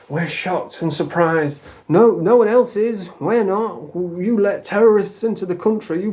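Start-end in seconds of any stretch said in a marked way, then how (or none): 0.1-1.6 mock Starmer. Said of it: "Fucking Starmer there".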